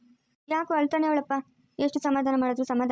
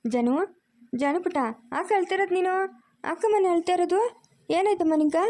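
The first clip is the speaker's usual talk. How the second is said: put-on higher, cooing questions to a baby; pet-name cooing, pitched up; soothing baby talk; 5 semitones higher than usual. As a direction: coax the crying baby in a raised pitch.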